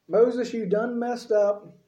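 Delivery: slow, drawn-out mock scolding; sassy complaint. Israelites griping at Moses, slow mock scold. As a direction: drag it out like a griping crowd.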